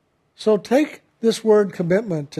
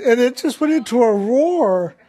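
a laugh in the voice, higher; 4 semitones higher than usual. Real, not acted. Telling how the congregation roared, laughing along. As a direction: giggle as the story peaks.

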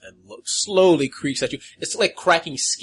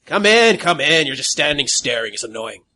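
irritated coroner; 7 dB louder than usual. Acted. Coroner NPC snaps at visitors.

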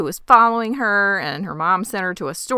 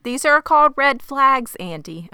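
sarcastic lecture; 6 semitones higher than usual. Real, not acted. Co-host scolding the character Andy, sarcastic. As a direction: talk down to her like a teacher.

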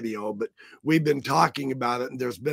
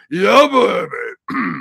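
hammed-up yeah baby; 6 semitones higher, 9 dB louder, slower than usual. Greeting viewers, hamming it up.

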